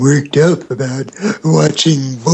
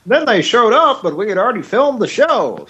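mock the live studio audience line; mock announcer; 9 semitones higher than usual. Cohost parodying a sitcom intro in a lightly mocking announcer voice.

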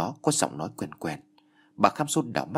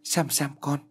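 calling out; 5 semitones higher than usual. Acted. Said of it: "giọng của bà Kham Sô cũng cất lên".

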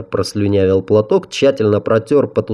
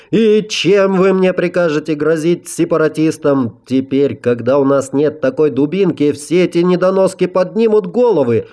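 angry council head; 7 semitones higher than usual. A narrator's reading.

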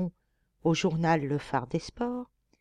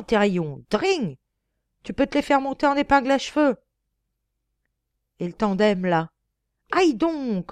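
loud, higher, jeering Parisian cabby; rowdy coachman; 4 semitones higher, 6 dB louder than usual. Acted. Cyclist-hating coachman loudly jeers at cyclists he runs down. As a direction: bawl insults at everyone on the road.

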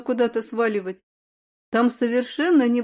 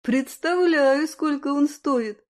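coy reluctance; 3 semitones higher, slower than usual. Acted. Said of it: "продолжала ломаться я".

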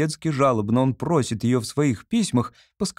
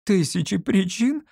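higher, tearful disbelief; sobbing question; 8 semitones higher than usual. A narrator's reading. Olga sobbing back at the artist, high and tearful. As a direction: choke it out through a sob. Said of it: "всхлипнула Ольга Ивановна".

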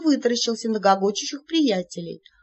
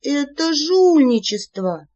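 slow, louder, higher outrage; outraged; 6 semitones higher, 6 dB louder, slower than usual. Acted. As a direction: keep protesting hotly. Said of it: "продолжала возмущаться я". (возмущённо)

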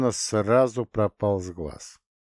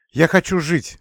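higher, louder cry to live; exclaiming; 8 semitones higher, 8 dB louder than usual. A narrator's reading. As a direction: cry out desperately. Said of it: "воскликнула она". (громкое восклицание)

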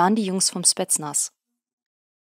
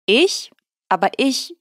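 startled; 6 semitones higher, 5 dB louder than usual. A narrator's reading. Eugen caught, about to be thrown.

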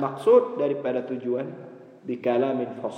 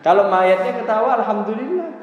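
laughing; 8 semitones higher, 4 dB louder than usual. Real, not acted. Joking about selfie at funeral.

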